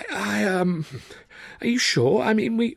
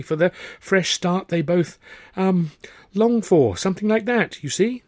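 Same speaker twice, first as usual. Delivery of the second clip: higher, stumbling improvisation; flustered Arthur; 11 semitones higher, 6 dB louder than usual. A narrator's reading. Arthur to Tilly inventing a story, flustered. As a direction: make it up on the spot.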